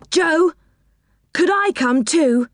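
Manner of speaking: put-on high pleading child voice; begging. A narrator's reading. Rick begging Joe to come along, pleading. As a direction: wheedle it like a little boy. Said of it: "he begged".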